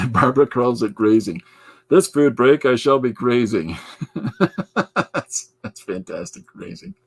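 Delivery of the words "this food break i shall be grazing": loud, playful proclamation; mock-grand. Host riffs on a listener's word grazing, mock-grand. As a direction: declare it grandly, loudly, for a joke.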